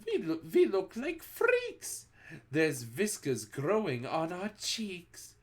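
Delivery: put-on child shouting at new whiskers. A narrator's reading. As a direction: shout it in horror. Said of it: "Another shouts".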